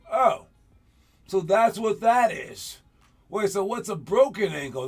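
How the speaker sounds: put-on surprised kid. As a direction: act like it just clicked. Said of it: "And you're like".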